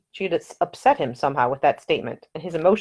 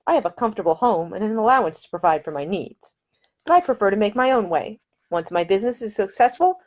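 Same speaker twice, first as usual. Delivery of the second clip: put-on a higher, eager young lady explaining her plans; a proud heroine making her case, raised in pitch; Ida's voice; 3 semitones higher than usual. Ida tells Nick why she is going to India, in a higher, eager voice.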